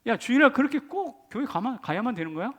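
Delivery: mock-scornful challenge; imitating a scoffer's jibe; sneering. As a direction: needle the churchgoer, starting high. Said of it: "이렇게 비아냥거립니다".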